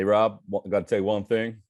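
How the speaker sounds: put-on folksy Kansas coach accent, earnest; Ted Lasso accent. The speaker quoting Ted Lasso to Rob, in a light Southern US accent. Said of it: "That's a good accent".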